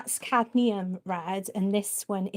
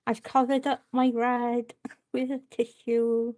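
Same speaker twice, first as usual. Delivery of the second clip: brush in mouth. Real, not acted. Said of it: "If I feel like I'm talking funny".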